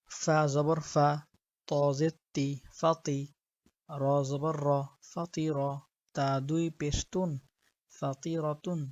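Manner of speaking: measured, even-toned Quranic spelling drill; spelling-drill recitation. Shown as a demonstration. Teacher spelling Arabic words for learners, measured recitation. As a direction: spell out each letter and vowel, then join them steadily.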